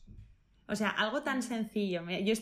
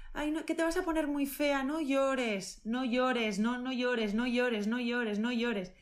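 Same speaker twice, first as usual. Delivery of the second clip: higher nagging repetition of no llores; repeated "no llores"; 4 semitones higher, slower than usual. Retold or imitated. Grown-ups telling the crying girl to stop, nagging. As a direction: mimic the grown-ups hushing a child. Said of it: "Que me decían a mí".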